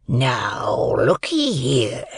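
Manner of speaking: slow, drawn-out convict's voice; menacing convict. A narrator's reading. Convict questions a seized boy, slow and menacing. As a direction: demand it slowly, as a threatening rough man.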